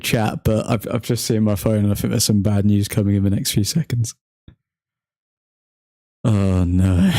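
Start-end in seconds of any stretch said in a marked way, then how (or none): 6.2-7.1 dismayed. Real, not acted. Bad news seen coming in the match.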